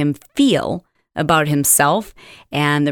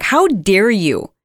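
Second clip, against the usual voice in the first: mock indignant. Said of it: "I wanted to respond to her and say".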